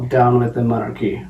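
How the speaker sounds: lightly put-on French accent; mock French revolutionary slogan in a French accent. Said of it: "You just make a French accent".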